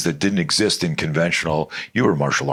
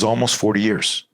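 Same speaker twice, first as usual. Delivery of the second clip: imitated disbelief, pitched higher; incredulous echo; 4 semitones higher than usual. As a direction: repeat it back as an astonished question. Driver echoes the answer in disbelief.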